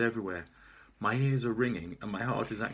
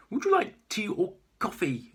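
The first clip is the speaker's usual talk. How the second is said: deliberately slow; 10 semitones higher, 6 dB louder than usual. Acted. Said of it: "I speak deliberately slow".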